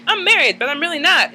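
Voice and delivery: high mocking aside; mock gossip. Gossiping about Brandy's marriage, high mock voice. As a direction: toss it off high and knowing. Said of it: "and then she's like".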